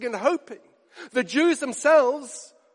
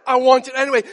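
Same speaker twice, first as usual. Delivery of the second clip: I want it anyway, said louder with weight on want; insistent, louder; 2 semitones higher, 8 dB louder, faster than usual. Retold or imitated. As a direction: plant your feet and insist on want. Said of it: "How can you say that?".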